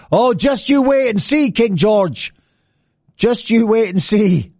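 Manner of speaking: a mock-ominous tease, drawn out slowly; teasing threat. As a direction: dangle a secret in front of him. Colonists teasing King George.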